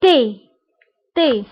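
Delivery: تي said as French taie, clear é; teacher modelling تي as French taie; French word model. Shown as a demonstration. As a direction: say تي with a clean French é. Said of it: "إكزامبل".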